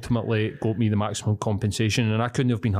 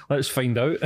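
high giggle into words; laughing it off; 4 semitones higher than usual. Real, not acted. Laughing at the joke.

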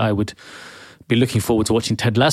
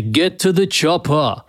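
failed Arnie impression; 4 semitones higher, slower than usual. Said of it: "sorry, that sounds like, uh, a singer".

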